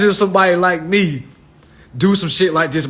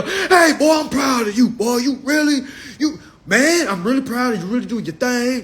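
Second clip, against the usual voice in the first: fake proud praise; 5 semitones higher than usual. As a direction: gush like a suddenly proud relative. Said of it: "people that you was trying to tell".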